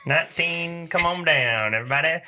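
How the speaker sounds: auction voice. Acted. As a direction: call it out like an auctioneer. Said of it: "Any opportunity to use your auction voice".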